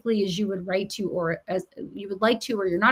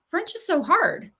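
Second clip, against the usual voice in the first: lightly imitated higher-pitched whine; mock teenage complaint; 6 semitones higher than usual. Repeats the daughter's complaint.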